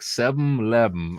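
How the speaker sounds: "seven eleven" said as "sebm lebm"; imitating a Southern "sebm lebm" for "seven eleven"; Southern pronunciation. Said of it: "How do you spell seven eleven?".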